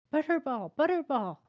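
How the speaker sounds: high, loud frantic yell of a name. A narrator's reading. Boy yelling after his fleeing dog, frantic shout. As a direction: call the dog back in a panic. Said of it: "Scott yelled".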